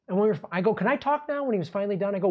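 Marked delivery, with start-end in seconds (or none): 0.7-1.4 high, pointed sarcastic question. Retold or imitated. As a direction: needle the cop. Sarcastic to cop.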